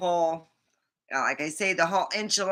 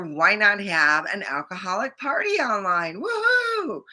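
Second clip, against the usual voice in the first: mock party cheer; 2 semitones higher than usual. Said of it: "I figure".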